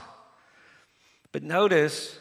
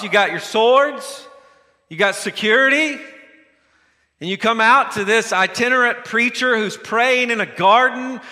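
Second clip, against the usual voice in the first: mocking, rising to louder jeers at you're so big; sarcastic taunt; 2 semitones higher, 4 dB louder than usual. Jesus mocking the armed crowd, sarcastic and louder. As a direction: taunt them, dripping with scorn. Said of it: "It's fairly sarcastic here".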